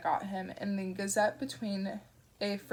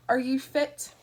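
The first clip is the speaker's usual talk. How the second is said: put-on gruff roaming British accent, louder and higher; unplaceable British accent; 5 semitones higher, 6 dB louder, slower than usual. Shadwell quizzes Newton, unplaceable British accent. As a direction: bark it in a wandering British accent. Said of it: "accent was unplaceable".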